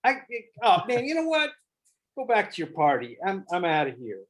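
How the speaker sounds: rising exasperation, climbing high on oh man; frustrated brush-off, then walk away; half-acted hurt and fed up; mock frustrated. Shown as a demonstration. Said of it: "you walk away totally frustrated".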